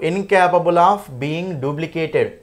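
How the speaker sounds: very slow, word-by-word reading; spaced-out dictation pace. Shown as a demonstration. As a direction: read the phrase out slowly for a class. Reading out the question phrase.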